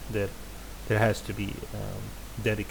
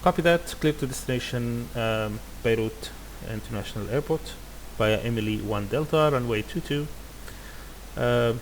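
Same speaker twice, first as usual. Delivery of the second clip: radio readback. Shown as a demonstration. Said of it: "he made a mistake and he's correcting".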